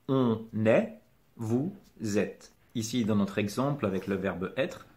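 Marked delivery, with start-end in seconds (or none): 0.1-2.5 "On est" as "on nè", "vous êtes" as "vou zèt"; detached syllables, n and z starting the second; liaison. Shown as a demonstration. Teacher repeating both liaisons, split demonstration. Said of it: "la liaison".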